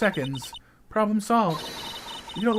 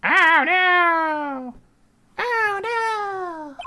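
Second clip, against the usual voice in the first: dismayed; 12 semitones higher, much slower than usual. Pretend. Reacting to bad turn.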